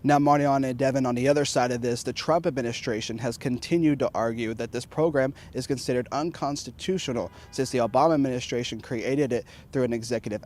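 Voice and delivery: steady anchor-style report; news read. Acted. Reporter toss back to anchors.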